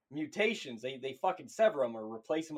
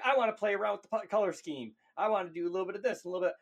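mock fussy painter; 2 semitones higher, faster than usual. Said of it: "everybody else is always like".

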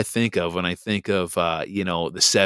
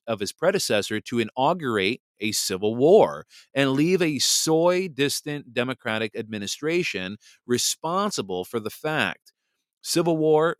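measured, emphatic historical narration; formal reading aloud. Acted. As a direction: read it out clearly, weighting key phrases. Reads a historical account aloud.

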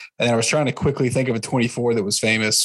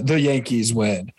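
John Sterling call. Retold or imitated. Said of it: "He's the".

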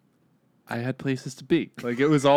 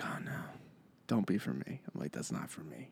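hushed, much softer muttered plea; acted quiet dread; 5 semitones lower, 16 dB quieter than usual. Driver retells police pulling out behind him, hushed dread. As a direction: say it under the breath, hoping to be spared.

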